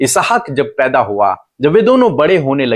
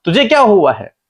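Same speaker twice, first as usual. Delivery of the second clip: high, raised preacher's quote; God questioning Hagar; 8 semitones higher than usual. Retold or imitated. God questions Hagar lost in the wilderness, high pointed questioning. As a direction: voice God's questions high, with pauses between. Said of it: "परमेश्वर से कहते हैं".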